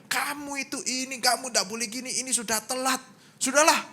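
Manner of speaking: high-pitched acted grumbling; mock nagging. Husband telling off his wife for being late, nagging.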